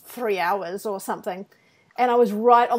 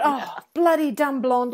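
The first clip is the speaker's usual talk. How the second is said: self-mocking; 3 semitones higher, slower than usual. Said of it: "and then I thought".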